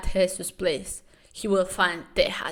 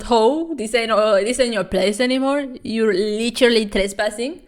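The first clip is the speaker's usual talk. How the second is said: loud scolding; 5 dB louder than usual. Real, not acted. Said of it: "scolding the character".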